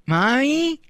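put-on high questioning little kid; toddler voice. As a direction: ask it like a three-year-old. Toddler asks.

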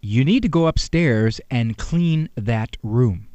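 calm mild instruction. Retold or imitated. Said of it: "And that's how you said it".

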